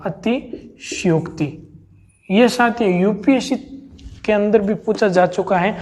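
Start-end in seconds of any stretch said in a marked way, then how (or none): 0.1-1.5 अतिशयोक्ति drawn out softly, full स stressed; slow careful spelling. Shown as a demonstration. Teacher quietly drawing out अतिशयोक्ति to show the full स. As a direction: say अतिशयोक्ति very slowly, softer, full स. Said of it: "स पूरा आएगा".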